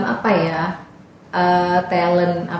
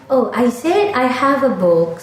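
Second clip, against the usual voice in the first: higher, slow, careful teacher's English; teacher correcting pupils; 6 semitones higher, slower than usual. Retold or imitated. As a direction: model the sentence slowly for students. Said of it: "Terus saya bilang". (guru membetulkan murid dengan pelan)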